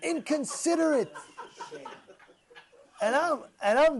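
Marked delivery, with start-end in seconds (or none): 0.0-1.1 higher, half-hearted yelled insult; mock scream. Fellow yells at the parked driver, a mild mock yell. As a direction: toss the word out as a retold yell. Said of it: "He screams out".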